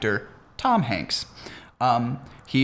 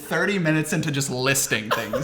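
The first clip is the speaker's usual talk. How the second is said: laughing. Real, not acted. Laughing at the video.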